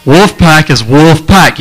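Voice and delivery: "Wolf pack" split into two clear, slow syllables. Shown as a demonstration. Preacher showing the crowd the chant, wolf pack in two slow beats. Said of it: "I'm making two syllables".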